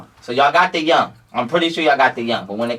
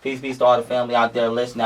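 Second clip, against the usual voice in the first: signature greeting. Real, not acted. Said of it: "my signature phrase".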